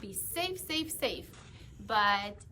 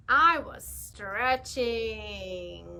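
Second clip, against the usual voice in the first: slow, louder protest; insistent denial; 3 semitones lower, 4 dB louder, much slower than usual. Acted. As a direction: drag it out defensively. Pigeon denies yawning.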